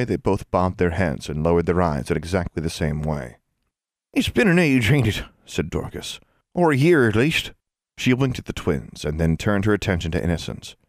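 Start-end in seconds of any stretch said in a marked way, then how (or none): 4.1-7.5 put-on fond old woman. A narrator's reading. Old Dorcas teasing fondly.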